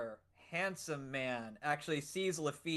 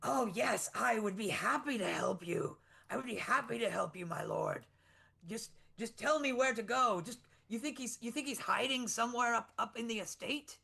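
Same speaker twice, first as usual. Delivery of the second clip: higher, eager fawning voice; a sweaty, fawning villager, lightly voiced; eager toady; 4 semitones higher than usual. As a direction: fawn over the lord. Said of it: "he's like".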